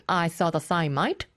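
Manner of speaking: light imitation of an Australian accent; Samantha. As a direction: repeat it with a hint of put-on Aussie. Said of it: "to repeat what Samantha said".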